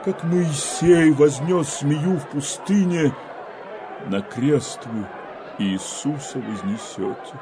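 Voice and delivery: rising, thundering rebuke; prophetic denunciation. Acted. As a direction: denounce the people like a prophet.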